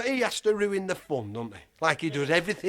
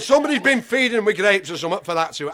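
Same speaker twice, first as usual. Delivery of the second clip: accusing keeper; 4 semitones higher, 8 dB louder, faster than usual. Retold or imitated.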